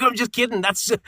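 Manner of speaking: high, giggly retold apology; laughing backtrack. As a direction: take the joke back through laughter. Retold backtracking after a joke lands badly.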